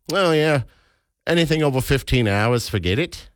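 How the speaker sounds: casual New Zealand twang; New Zealand accent. Pretend. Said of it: "I don't know why you have a New Zealand accent".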